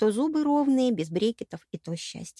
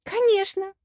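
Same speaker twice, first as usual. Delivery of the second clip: excited; 11 semitones higher, 4 dB louder, slower than usual. A narrator's reading.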